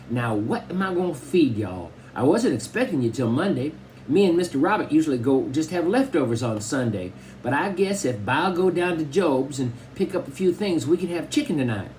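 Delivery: put-on high old Southern grandma voice; Grandma Sands. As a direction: fuss over the grandson like a tiny old granny. Grandma Sands plans dinner.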